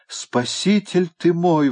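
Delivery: громко и протяжно, высоко, медленно; кричит от радости спасения; восторженный возглас. A narrator's reading. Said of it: "воскликнул он". (восторженный медленный возглас)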